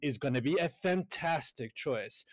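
put-on chirpy waiter; hammed-up service pep; customer-service cheer. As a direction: gush politely at a customer.

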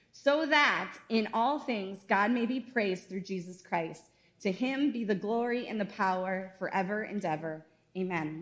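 measured, steady Bible reading to the congregation; scripture reading. Acted. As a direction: read the passage aloud with weight. Reads the primary scripture text.

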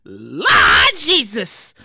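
slow, low, loud groan of Lord Jesus; a slow low holler; exclaiming. Real, not acted. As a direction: drag it out low and heavy. Repeated exclamation.

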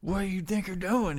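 high-pitched outraged character voice; indignant prisoner. Acted. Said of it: "Barack, is like".

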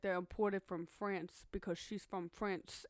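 "France" said to sound like "French". Retold or imitated. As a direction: drag the line out, bending "France" toward "French". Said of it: "the way he says it, it sounds like she's from French".

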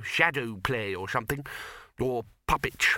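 usual speaking voice

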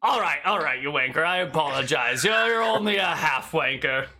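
lightly voiced farmer, sarcastic apology; mock apology. Farmer insults the traveller while apologising, sarcastic. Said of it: "an old hillbilly farmer".

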